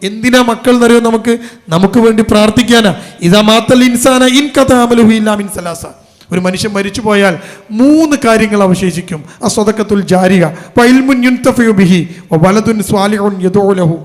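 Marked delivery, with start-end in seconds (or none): 3.3-14.0 measured Arabic recitation, slowing at the end; preacher reciting an Arabic hadith, solemn and measured. Acted. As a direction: recite the prophet's words with reverence.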